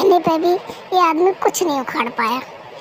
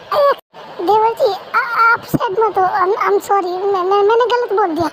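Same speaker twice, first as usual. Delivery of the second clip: mock apology; 2 semitones higher than usual. Wife mock-apologises to brother-in-law.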